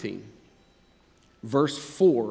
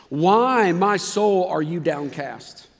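lamenting; 4 dB louder, much slower than usual. Acted. Reads psalm with feeling.

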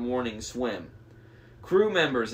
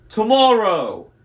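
loud, slow, high-pushed order; roaring monster; 10 semitones higher, 10 dB louder, slower than usual. A narrator's reading. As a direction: shout the deadline as the monster. Monster sets a deadline.

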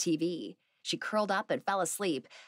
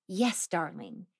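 calmly; slower than usual. Acted. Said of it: "Aunt Eartha said calmly".

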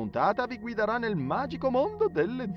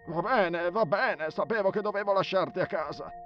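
loud, raised-pitch exasperation; high, loud and annoyed; fed-up retort; 7 semitones higher, 4 dB louder than usual. Acted. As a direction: snap back at a whining friend. Annoyed friend answers the complaint.

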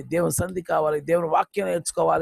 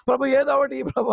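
wrong way to ask; 5 semitones higher than usual. Shown as a demonstration. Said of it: "అనకండి".

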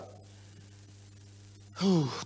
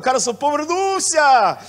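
slow, loud mock cry of a mocker; drawn-out teasing call, louder; mock exclaim; 7 semitones higher, 8 dB louder, slower than usual. Pastor imitating a mocker teasing him, slow loud cry. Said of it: "щоб ніхто не сказав".

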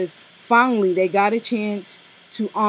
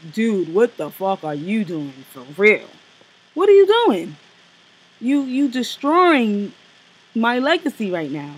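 imitating a late rapper. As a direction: play the rapper scolding from above. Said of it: "the rapper was looking down".

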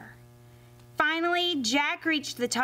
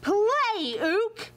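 giant shouting; 8 semitones higher than usual. Acted. Giant ordering the ukulele to play, high shout. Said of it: "the giant shouted".

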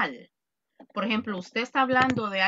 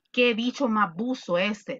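slang example. Shown as a demonstration.

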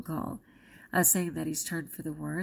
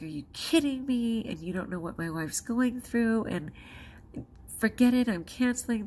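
mock angry husband; 5 semitones higher than usual. Husband angry at florist, retold.

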